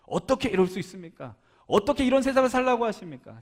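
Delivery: acting out an aggrieved protest; confrontational. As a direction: challenge God with indignant questions. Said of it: "마치 따지는 것 같아요".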